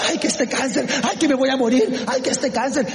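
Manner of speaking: high-pitched imitation of self-pity; mock lament. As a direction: act out someone bemoaning an illness. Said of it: "que lamenta su enfermedad". (lamento fingido)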